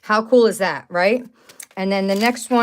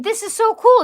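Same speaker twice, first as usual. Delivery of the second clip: thrilled; 13 semitones higher, 4 dB louder than usual. Real, not acted. Thrilled by mother-daughter news.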